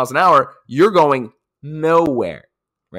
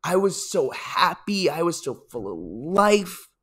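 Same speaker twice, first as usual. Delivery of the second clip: put-on slow, higher wistful old man voice; old man crying in happiness; 6 semitones higher, slower than usual. Himself at ninety watching old videos, slow and tearful. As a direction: drag it out like a teary ninety-year-old. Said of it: "I'm gonna cry in happiness, being like".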